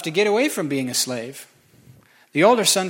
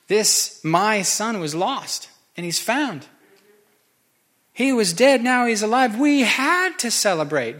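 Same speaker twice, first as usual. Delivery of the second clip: higher, louder joyful plea; pleading joy; 6 semitones higher, 3 dB louder, slower than usual. Acted. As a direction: plead with rising elation. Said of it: "the father pleads with him".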